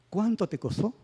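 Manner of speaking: high soft question leaning on "Cuánto"; emphatic question intonation. Shown as a demonstration. Teacher gives class an example question, emphasis on "Cuánto". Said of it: "Se hace mucho énfasis en la entonación".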